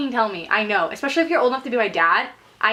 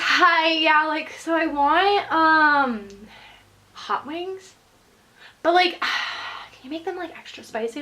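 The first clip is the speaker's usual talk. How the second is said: slightly higher, halting phone customer; indecisive caller; 4 semitones higher, slower than usual. Retold or imitated. Customer hesitantly phoning in a wing order, indecisive. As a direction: imitate a caller dragging out the order. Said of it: "So she calls and she goes".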